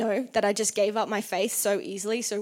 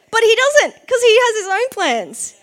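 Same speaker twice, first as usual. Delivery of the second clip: much higher and louder, ringing out; emphatic punchline; 11 semitones higher, 9 dB louder than usual. Real, not acted. Preaching to the congregation, a loud high punchline. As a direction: land it loud and high for the crowd. Punchline that God has other plans.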